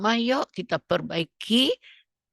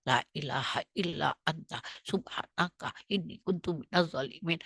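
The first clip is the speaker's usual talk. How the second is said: mouthed by rote; 3 semitones lower, 6 dB quieter than usual. Shown as a demonstration. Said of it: "kita pakai mulut, dibaca-baca lagi".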